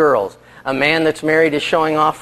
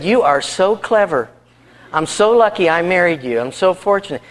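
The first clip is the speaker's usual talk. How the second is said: mild gushing admiration; 3 semitones higher than usual. Retold or imitated. Wife gushes over husband's silly feat.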